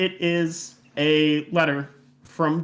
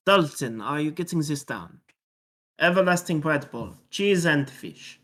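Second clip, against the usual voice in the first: put-on French-accented character dictating. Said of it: "said in a French accent".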